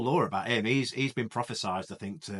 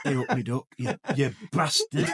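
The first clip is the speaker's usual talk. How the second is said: hamming up an American twang; mock American accent; 4 dB louder than usual. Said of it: "One doesn't simply do an American accent".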